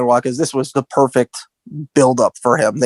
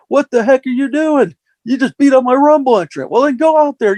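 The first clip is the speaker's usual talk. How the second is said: imitating Austin; 10 semitones higher than usual. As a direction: bark at the new guy like Austin. Austin yelling at Test.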